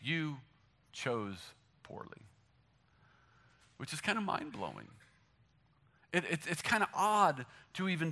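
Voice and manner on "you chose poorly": movie quote. Retold or imitated. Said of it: "Jesus said".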